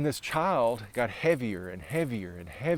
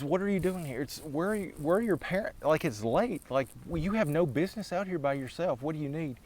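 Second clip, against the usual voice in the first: startled, high-pitched concern; 4 semitones higher than usual. Acted. Man finds child alone at night.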